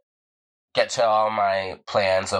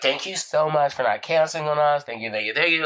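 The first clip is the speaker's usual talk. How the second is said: higher-pitched imitation of grateful passengers; gushing thanks; 6 semitones higher than usual. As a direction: gush with relief, lightly acted. Grateful riders acted out.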